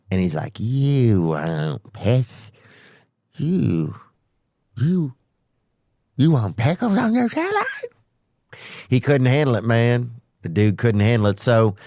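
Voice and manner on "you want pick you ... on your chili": baffled server. Retold or imitated. Confused server asking a third time, halting and rising. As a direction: stammer it out as if he can't believe it.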